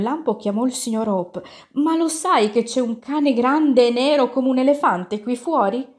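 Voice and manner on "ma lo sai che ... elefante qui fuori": high, urgent storybook question; lightly acted cry of alarm; mild alarmed yell. A narrator's reading. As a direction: raise the alarm in a higher voice. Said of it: "gridò".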